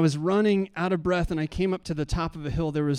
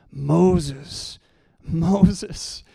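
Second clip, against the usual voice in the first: a lightly voiced divine call, louder; God; 2 semitones higher, 7 dB louder than usual. God calls Moses at the burning bush, emphatic. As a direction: call out the name twice, weighty and emphatic. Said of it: "when God speaks".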